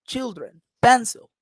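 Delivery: put-on "children, pencil" as CHIL-dren, PEN-cil; first-syllable stress. Shown as a demonstration. Teacher correcting the wrong versions, stress on first syllables. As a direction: stress each start, let the endings of "children, pencil" drop. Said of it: "I say".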